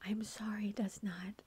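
measured, incredulous retort in a retelling; indignant retort. Retold or imitated. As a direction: spell it out slowly, mildly indignant. Retold argument after the crash.

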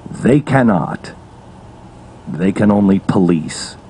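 low, measured speech with long pauses; deliberate, low-pitched radio monologue; solemn oratory. Acted. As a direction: let each short statement land gravely. Solemn slow monologue to listeners.

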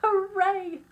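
high, loud hoorays, building; elated shout of victory; shouted cheer. Acted. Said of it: "she shouted".

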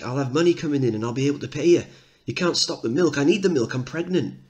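desperate mum pleading for milk; pleading mother. Acted.

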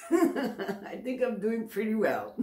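joking about herself through laughter; playful laughing brag. Real, not acted. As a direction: giggle while teasing yourself. Laughing at her own slip.

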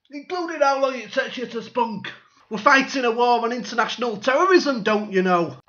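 mock official rant. Voicing surveillance official ranting.

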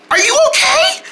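very high squeaky voice; concerned little friend. Pretend. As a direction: pipe up with concern. Little friend worries after collapse.

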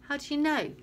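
high loud shouted question. A narrator's reading. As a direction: shout it over the noise. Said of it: "Scott shouted".

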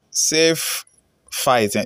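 "Safe fight" said drawn out, no L in fight; misspelling read out. Shown as a demonstration. Host reads a fan's mistyped comment aloud, literal misreading. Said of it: "The person is saying, "Safe fight".

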